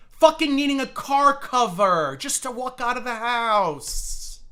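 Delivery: squealing in mockery at a rival's body; high mocking squeal. Real, not acted. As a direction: shriek it out in cruel glee.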